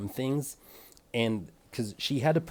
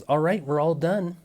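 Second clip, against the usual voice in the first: chipper stylist; 7 semitones higher, 6 dB louder than usual. Retold or imitated. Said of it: "And she goes".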